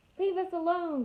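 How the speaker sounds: very high, loud squeak. Reading a story aloud, Dart crouches low in the grass facing Roz, Dart's squeak. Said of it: "squeaked Dart".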